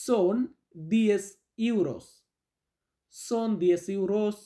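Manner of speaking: very slow, word by word; slow teaching model. Shown as a demonstration. Teacher introducing his name in Spanish, very slow. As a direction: drill it word by word for beginners. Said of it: "teacher models phrase".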